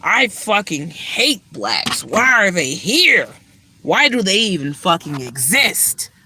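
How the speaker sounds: slow, sneering put-on bigot voice; mock racist manager. Mocking the manager's hateful look, slow sneer. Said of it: "He be looking like".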